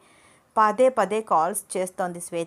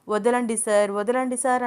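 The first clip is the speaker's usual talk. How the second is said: higher, mock pleading imitation of Ananya; mocking her whine; 3 semitones higher than usual. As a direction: mimic her whining 'వదలండి sir' teasingly. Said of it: "అని అంటావు". (ఆమె గొంతును వెక్కిరిస్తూ అనుకరణ)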